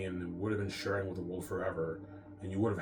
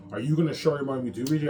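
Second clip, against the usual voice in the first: a bit louder, quicker nagging wife voice; lightly mocked wife; 6 semitones higher, 9 dB louder, faster than usual. Husband imitates his wife pushing to share the money, a touch louder and faster. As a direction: rattle off the wife's demand, lightly mocking.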